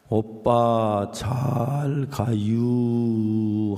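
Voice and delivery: Chungcheong drawl, stretched out and half sung; slow Chungcheong accent. Retold or imitated. Sister seeing her brother off at the station, very slow Chungcheong sing-song. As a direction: drag each syllable out like a slow Chungcheong sister. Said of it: "동작도 느리고 말도 느리대요".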